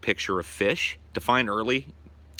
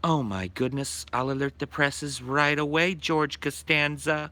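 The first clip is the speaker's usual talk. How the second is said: mock Anita Sarkeesian; 3 semitones higher than usual. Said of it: "this is Anita Sarkeesian".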